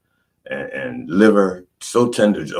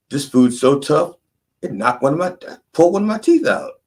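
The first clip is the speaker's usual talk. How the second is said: put-on whiny kid voice; 9 semitones higher than usual. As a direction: play the kid caught out, voice climbing high. Child voice showing tooth to dad.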